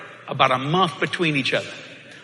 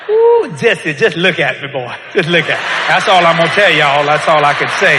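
laughing, louder at end; laughing disbelief; 4 dB louder than usual. Retold or imitated. Wife Kathy laughing in disbelief at Jesse. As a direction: laugh in amazement at husband.

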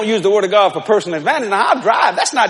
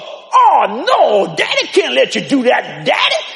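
mock daughter protesting; 3 semitones higher than usual. Daughter refuses the drapes again.

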